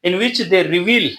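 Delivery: reads each English word out slowly for notes; slow dictation. Shown as a demonstration. Teacher dictating notes to students, slow and deliberate. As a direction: spell out the definition word by word.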